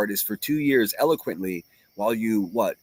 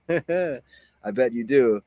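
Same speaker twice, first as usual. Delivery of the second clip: slow sarcastic; much slower than usual. Real, not acted. Sarcastic reply to chat.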